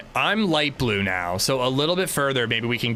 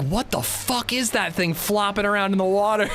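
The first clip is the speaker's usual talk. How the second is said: laughing disbelief; 7 semitones higher than usual. Retold or imitated. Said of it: "I'm like".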